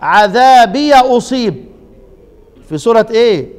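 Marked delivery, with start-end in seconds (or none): 0.0-1.7 عذابي أصيب recited slowly with the ya of عذابي opened; Quranic recitation. Shown as a demonstration. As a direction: chant it slowly, opening the ya. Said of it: "زي ما أنا قرأت كده". (تلاوة عذابي أصيب بفتح الياء)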